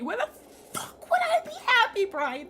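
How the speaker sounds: high, loud indignant yell; outraged retort. Real, not acted. Streamer yelling back at the game character Brian. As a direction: snap back at the character in disbelief.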